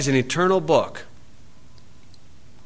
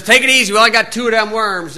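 high, urgent mock caution; mock warning; 5 semitones higher, faster than usual. Noah cautioning Ham fishing with the last worms, mock urgent. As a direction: warn him off the bait worms.

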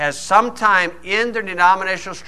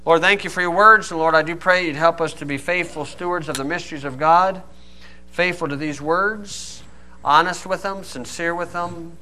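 closing prayer. Real, not acted. Preacher praying for the congregation to be faithful, prayerful and fading. Let's go and pray.

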